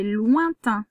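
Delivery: slow, word spelled out for pupils; teacher pupil dictation, saying lointain slowly and clearly. Shown as a demonstration. Teacher to pupil dictating the word lointain slowly. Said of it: "Alors, le deuxième mot".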